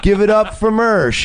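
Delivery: lightly imitated host intro, lifting at the end; comedy show emcee. Imitating the host introducing the last comic, light announcer lilt. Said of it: "all of a sudden I hear".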